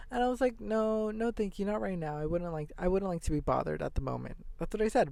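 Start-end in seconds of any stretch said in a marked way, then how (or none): 0.6-4.5 very nicely. Retold or imitated. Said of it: "very nicely".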